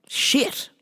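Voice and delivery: voiceless, whispered cursing; lost voice. Real, not acted. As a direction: voice gone, only air comes out. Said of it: "and I lost my voice".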